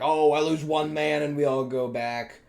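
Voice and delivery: a hint of a whiny, cowardly commander; cowardly leader. Gamera as a cowardly leader, lightly voiced whine. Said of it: "planned on making Gamera this kinda cowardly leader".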